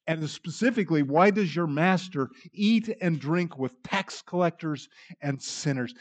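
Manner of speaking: grumbling critics mocking Jesus with disdain; scornful Pharisees. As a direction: sneer at the teacher with hammed-up disdain. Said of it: "you can hear the scorn, you can hear the disdain and the self-righteousness".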